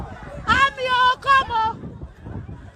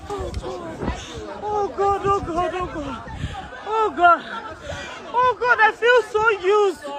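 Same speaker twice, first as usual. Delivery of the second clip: lower, panicked repeated moaning; terrified gibbering; 4 semitones lower than usual. Real, not acted. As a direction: gasp God over and over. Repeated panicked God calls.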